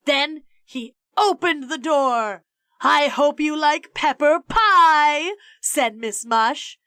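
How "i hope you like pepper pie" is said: loud, slow sloshing lunch-lady voice; lunch lady's gleeful threat. A narrator's reading. Lunch lady about to smash a pie in his face, loud and slow. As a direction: savour it before the smash.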